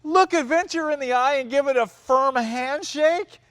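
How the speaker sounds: high-pitched, scoffing disbelief; incredulous mocking quote. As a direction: throw the slogan back as an outraged question. Mocks the line in disbelief.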